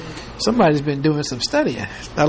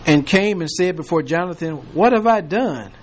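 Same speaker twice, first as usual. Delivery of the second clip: measured King James reading voice; scripture reading. Acted. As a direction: read the verses steadily to the class. Reads scripture aloud to class.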